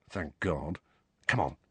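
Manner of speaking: low, softened voice; quietly relieved, kept down. A narrator's reading. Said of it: "Ron told Harry quietly".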